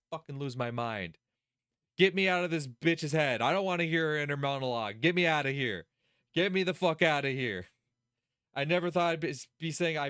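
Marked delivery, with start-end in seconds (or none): 2.0-7.7 heated, emphatic plea to escape; exasperated demand. Real, not acted. Streamer wants out of this character's head, exasperated demand. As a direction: demand it, fed up. Fed up with inner monologue.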